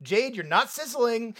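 hammed-up coaching that turns to scolding; mock director's criticism. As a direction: imitate a director singling out one actor. Acted director attacking Jade in exercise.

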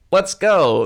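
high, loud and brisk; just bail out loudly. Retold or imitated. Quoting Gene, brisk.

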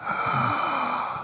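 long, soft gasp; drawn-out comic gasp; horrified gasp. Retold or imitated. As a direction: suck in breath in mock horror. Gasps at father's disgusting habit.

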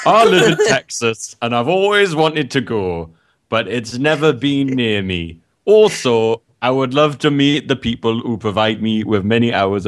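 vague half-Welsh, half-Irish put-on voice; just a voice. Reading the listener's letter in a muddled put-on accent. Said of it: "That was just a voice".

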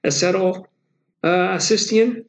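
N-acetyl cysteine sounded out slowly, unsure at the end; slow, hesitant try at cysteine with a rising ending; tentative drug-name pronunciation; careful pronunciation. Shown as a demonstration. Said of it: "I'm gonna butcher the name".

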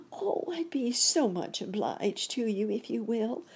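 tiny high creature voice; ant's grateful cry. A narrator's reading. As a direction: gush thanks in a high little voice. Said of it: "cried the black ant".

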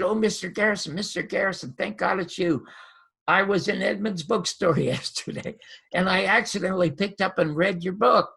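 mildly excited retold gush; a little excited. Caller thanking God he reached the author, mildly excited. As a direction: retell it with a touch of eager excitement. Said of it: "I got a little excited".

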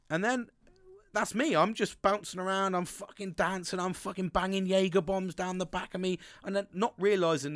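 octave through the roof. Shown as a demonstration. Telling mates about nights out, voice shooting high and loud. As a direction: let the voice shoot up an octave, buzzing. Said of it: "my fucking octave level goes ... through fucking roof".

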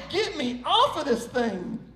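mock dizzy plea to get off; hammed-up dizzy protest. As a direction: act out a queasy, dizzy complaint. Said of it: "I got so dizzy".

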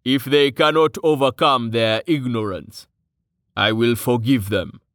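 measured, icy disapproval; cool, deliberate restraint. Acted. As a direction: forgive them coldly. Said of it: "His tone was icy".

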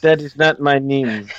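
mock-solemn Wakandan accent. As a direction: object in a put-on Wakandan accent. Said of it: "what is your Wakandan name".

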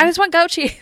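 longing. Retold or imitated. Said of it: "I'm like".

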